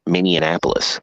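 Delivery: Minneapolis again as Mini-an-apolis; quick repeat of Minneapolis as Mini-an-apolis; same wrong way. Shown as a demonstration. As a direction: Minneapolis with the extra "an" sound, said quickly. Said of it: "like you said it there".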